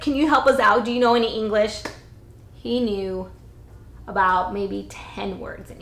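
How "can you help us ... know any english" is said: urgent plea. Retold or imitated. Begging a stranger for help.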